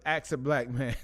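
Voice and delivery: "Ask" pronounced "ax". Shown as a demonstration. Host announcing today's show title to viewers, ax for ask. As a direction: flip the consonants in "Ask" to make "axe". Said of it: "So it's".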